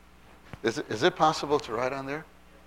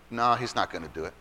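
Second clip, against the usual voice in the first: dismissive doubt; 4 dB quieter than usual. Acted. Doubt right after loud prayer.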